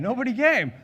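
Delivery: nobody CAME, pushed up and out. Real, not acted. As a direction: hit it harder. Repeats punchline for emphasis.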